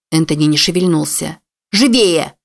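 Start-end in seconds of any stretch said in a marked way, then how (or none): 1.7-2.3 higher, louder barked order; urging the stranger into the car; sharp shout. A narrator's reading. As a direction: snap at him to hurry. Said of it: "прикрикнула она".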